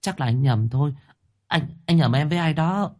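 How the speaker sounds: a girl on the verge of tears, voiced lightly; mild tearful protest; teary girl. A narrator's reading. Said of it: "rưng rưng nước mắt".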